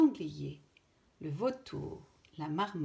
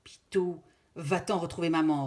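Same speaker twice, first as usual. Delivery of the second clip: louder firm order; 6 dB louder than usual. Acted. Father orders his son to run, firm and louder. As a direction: send him away, commanding. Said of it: "ordonne Bouko".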